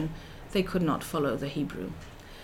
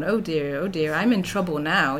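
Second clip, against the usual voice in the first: sarcastic. Retold or imitated. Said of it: "this is sarcastic".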